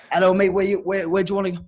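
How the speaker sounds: tentative first stab at a Russian cabbie; attempted Russian accent. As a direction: stumble into a poor Russian accent. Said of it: "I'm not even gonna do an accent".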